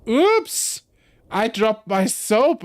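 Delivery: high, slow hammed-up old man. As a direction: squeak it out like a fussy old man. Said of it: "with an old man voice".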